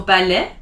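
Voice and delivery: balai ending on an open "eh"; French "ba-leh" for balai; silent final T. Shown as a demonstration. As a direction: leave the end of balai open, no T. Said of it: "You don't pronounce the T".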